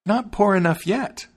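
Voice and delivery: high-pitched bird taunt; high, vengeful little bird; taunting sparrow. A narrator's reading. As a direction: pipe it high, rising at the end. Sparrow taunting the ruined wagoner.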